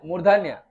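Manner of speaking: मूर्धन्य said crisply as the answer; answer stressed. Shown as a demonstration. Teacher drilling the term: मूर्धन्य stressed. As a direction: give मूर्धन्य as the key word. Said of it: "इसको क्या बोलते हैं".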